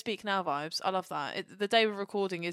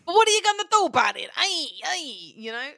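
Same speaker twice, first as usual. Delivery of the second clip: mock defiant voice; 8 semitones higher, 6 dB louder, faster than usual. Mock Dalek-accent defiance.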